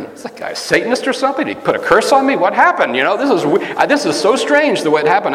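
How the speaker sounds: bewildered inner voice. Retold or imitated. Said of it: "And I'm thinking".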